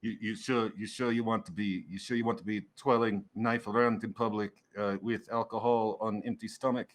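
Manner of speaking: lightly voiced foreign-sounding server; a hint of a character voice, hesitant advice; cautioning server. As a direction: gently warn the customer, slightly in character. GM plays the clipped-grammar server.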